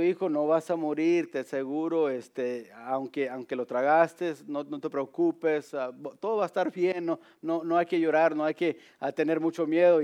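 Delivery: softly voiced calming father; gently imitated parental comfort; mild reassurance. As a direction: soothe a frightened child, keeping it low-key. Father reassuring his frightened son.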